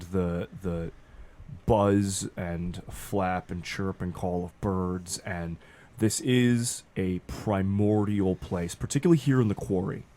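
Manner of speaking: slow, hushed game master description; scene narration. Acted. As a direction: paint the eerie place slowly.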